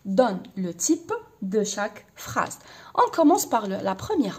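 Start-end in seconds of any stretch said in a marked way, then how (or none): 0.1-2.6 slow dictation. Shown as a demonstration. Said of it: "أعطيني النوع تاع كل جملة".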